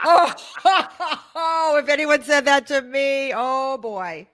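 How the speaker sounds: laughing. Real, not acted. Laughing at the joke.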